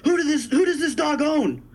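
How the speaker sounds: high, frantic, laughing through the question; imitating a freaked-out friend. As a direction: play a stoned buddy in a panic. Stoned friend demanding dog's owner.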